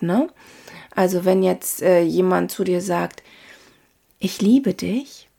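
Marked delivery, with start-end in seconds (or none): 4.2-5.3 tender declaration. Shown as a demonstration. Coach demonstrates emotion in the voice, tender. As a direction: say it slowly and sincerely, lifting at the end. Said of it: "dann hört sich das ganz anders an".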